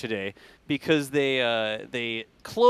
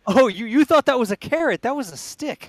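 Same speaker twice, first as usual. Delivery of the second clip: mock menacing; 9 semitones higher, 6 dB louder than usual. Joking threat to chat.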